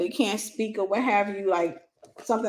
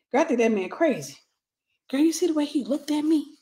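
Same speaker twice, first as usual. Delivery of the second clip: put-on gossipy girl; 4 semitones higher than usual. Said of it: "That pick me, that girl".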